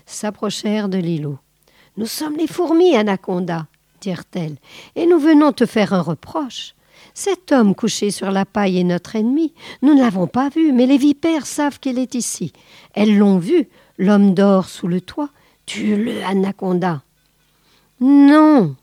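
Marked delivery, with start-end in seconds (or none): 2.0-17.0 ants' voice. Acted. Ants voiced in story. 18.0-18.8 sharp loud high "Non"; loud, high refusal; firm no. Acted. Boa refuses ants firmly.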